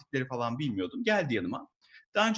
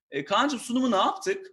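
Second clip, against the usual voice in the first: sweet mock boss; 8 semitones higher than usual. Voicing the manager.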